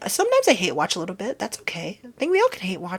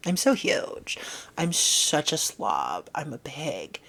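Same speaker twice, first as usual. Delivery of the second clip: mock whine; 3 semitones lower, slower than usual. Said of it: "when they're like".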